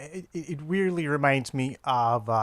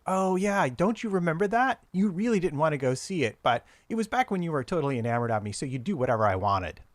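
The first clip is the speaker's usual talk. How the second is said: wife's teasing voice, higher; mocking wife; 4 semitones higher than usual. Husband voicing his teasing wife.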